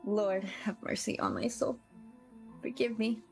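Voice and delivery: ordinary talk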